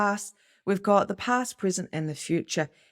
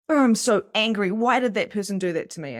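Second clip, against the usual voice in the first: higher and louder, a hammed-up indignant rant; mock anger; 4 semitones higher, 4 dB louder, faster than usual. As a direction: act out a grudge that won't let go. Voicing unforgiving anger.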